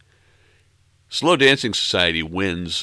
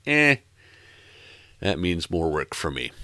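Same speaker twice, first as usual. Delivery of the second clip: lazy reluctance. Retold or imitated. Host imitating himself dodging extra work, lazily reluctant. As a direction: shrug it off with a lazy "eh". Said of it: "me being lazier than usual".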